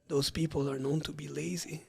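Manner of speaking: dropping the voice to share a secret. Retold or imitated. Trainer imitating old client lowering her voice to gossip. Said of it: "she lowers her voice".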